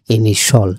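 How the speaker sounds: ইনিশাল said as ini-shal, no i-a glide; ইনিশাল with the ending as শাল, not শিয়াল; correct pronunciation. Shown as a demonstration. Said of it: "আমরা অনেকে ইনিশিয়াল বলি". (ইনিশাল উচ্চারণ, শিয়াল নয় শাল)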